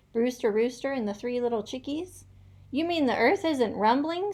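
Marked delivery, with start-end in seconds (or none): 2.7-4.3 high squeaky question; squeaked. A narrator's reading. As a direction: squeak it out in surprise. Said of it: "squeaked Iggy Piggy".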